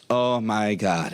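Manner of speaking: slow, put-upon sigh of a line; exasperated rider. Retold or imitated. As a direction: imitate a fed-up passenger, drawn out. Rider's exasperated reply, retold.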